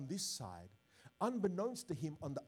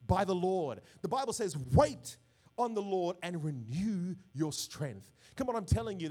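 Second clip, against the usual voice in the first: raised, emphatic preacher's voice; preaching; 6 dB louder than usual. Real, not acted. Pastor urging the congregation to trust God, emphatic preaching. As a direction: preach it out with conviction.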